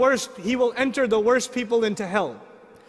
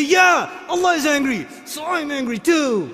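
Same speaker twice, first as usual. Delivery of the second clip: mocking self-righteous people; 3 semitones higher than usual. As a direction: play the person justifying anger. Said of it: "they say".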